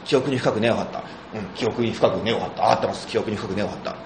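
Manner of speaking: 記憶に深く根を張った repeated softly in careful standard Tokyo pitch; drilling the line quietly and carefully; 標準語アクセントの練習; practising standard intonation. Retold or imitated. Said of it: "間違ったのは直そうって言って".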